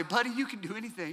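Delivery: tender dad. Retold or imitated. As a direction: reassure your little boy gently. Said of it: "I'll say".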